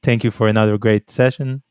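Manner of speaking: low radio sign-off; mock radio voice, dropped in pitch; radio host. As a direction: imitate a presenter thanking the guest. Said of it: "when they speak in the radio all the time".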